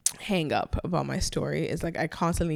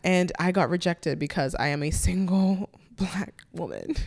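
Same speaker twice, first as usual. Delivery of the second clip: rueful whisper. Real, not acted. Rueful admission after sigh.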